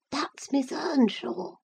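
high, breathy hushed whisper. A narrator's reading. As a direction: whisper it to mother. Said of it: "he whispered to his mother".

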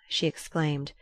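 usual speaking voice

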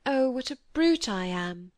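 a touch of contrite dismay; remorseful. Acted. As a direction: exclaim in mild remorse. Cynthia remorseful at friend's tears.

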